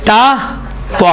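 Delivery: تا thin and light, then تو full and rounded; thin then heavy t. Shown as a demonstration. Teacher to class, contrasting thin and heavy t. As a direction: set تا against a heavy, round تو. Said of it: "فرق ہوا نا تا اور توئن میں".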